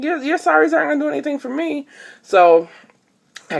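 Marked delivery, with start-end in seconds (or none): 0.0-1.9 retold exasperated retort. Arguing with clerk over refund.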